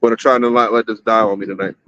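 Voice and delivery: talking around a cigarette; cigarette in mouth. Real, not acted. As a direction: speak with a smoke between lips. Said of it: "let me take a puff of this one".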